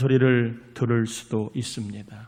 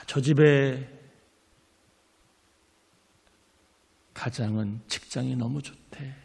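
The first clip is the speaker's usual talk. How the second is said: 수군거림 흉내; 3 semitones higher than usual. Retold or imitated.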